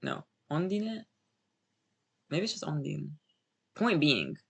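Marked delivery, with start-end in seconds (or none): 0.5-1.0 "Ondine" opening on an O, drawn out slowly; Japanese O sound. Shown as a demonstration. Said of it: "pronounce it with an O sound". 2.6-3.1 "Ondine" starting with an O rather than a U; O sound. Shown as a demonstration. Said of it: "pronounce it with an O sound".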